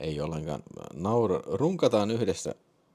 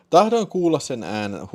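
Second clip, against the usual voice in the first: louder, higher, urgent plea with a touch of panting; huohottaen; 6 semitones higher, 6 dB louder than usual. A narrator's reading. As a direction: read it as a mildly panted demand. (hieman huohottaen, kovemmalla äänellä)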